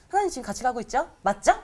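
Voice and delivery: fast, eager, grinning question; smiling eagerness. Retold or imitated. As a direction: bubble over with joy. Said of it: "얼굴에 미소가 가득해서".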